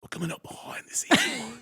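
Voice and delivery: high, excited Australian wildlife presenter; Australian accent, thrilled to spot the animal; Steve Irwin. Retold or imitated. Narrating his dog at the window in excited Australian. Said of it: "introducing Steve Irwin voice".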